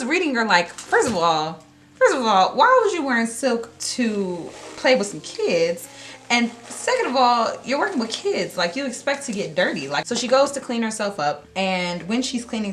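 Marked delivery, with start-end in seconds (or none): 0.7-1.6 outraged retort. Retold or imitated. Readers' outraged retort begins. 1.9-2.6 higher and louder, mock indignant; escalating mock outrage; outraged retort, pushed harder. 2.6-9.9 mock outrage. Readers' outraged retort.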